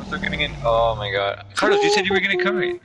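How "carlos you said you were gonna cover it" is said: much higher, frustrated complaint; exasperated outburst. Real, not acted. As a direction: call him out for not covering. Complaining teammate did not cover.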